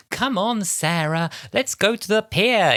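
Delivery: put-on a kid's high, eager call; high childish coaxing. Young Andrea urging Sarah toward the pier, high and childish. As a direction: coax your friend along in a high child's voice.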